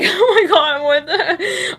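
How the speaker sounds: real uncontrolled giggles; cracking up. Real, not acted. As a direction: try to speak while bursting out laughing. Loses it laughing.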